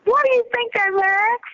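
high, astonished question; surprised question. Real, not acted. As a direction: sound amazed by the claim. Asks with surprise.

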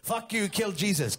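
high, loud mother-in-law tirade; mock angry outburst. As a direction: imitate a furious mother-in-law yelling. Mother-in-law's retold outburst.

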